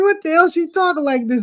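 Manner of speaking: a touch of disbelief; exasperated retelling. Retold or imitated. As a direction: gripe about the crazy boss at home. Retelling complaint to wife.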